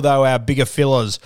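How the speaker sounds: slipped into a Kiwi accent; a touch of New Zealand vowels on "fellas". Real, not acted. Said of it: "I sounded a bit Kiwi there".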